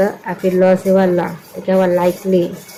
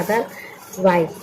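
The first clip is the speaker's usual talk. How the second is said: slow drawn-out answer; 5 dB quieter, much slower than usual. Shown as a demonstration. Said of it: "क्या हुआ?".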